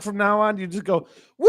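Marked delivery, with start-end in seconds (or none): 1.4-1.5 high, loud woo; mock party whoop. Telling coworker how to answer honkers, mock party whoop.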